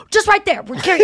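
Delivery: high, eager coaxing; imitating Donnell. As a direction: sell it like a pushy friend. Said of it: "he was like".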